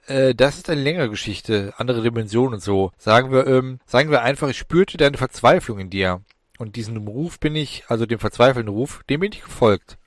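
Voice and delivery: put-on a cheeky young demon, offhand; voice in his head. Young demon explaining to Alan, lightly sly and offhand.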